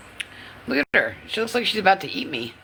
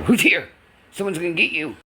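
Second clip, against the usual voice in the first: alert call. Shown as a demonstration. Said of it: "Act like somebody's here".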